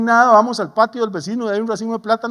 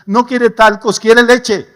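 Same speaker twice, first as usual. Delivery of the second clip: emphatic preaching; 7 dB louder, much slower than usual. Real, not acted. Preacher builds to climax.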